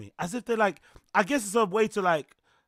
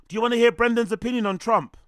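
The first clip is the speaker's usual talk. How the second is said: excited; 5 semitones higher, 7 dB louder, faster than usual. Real, not acted. Hyped fast teaser.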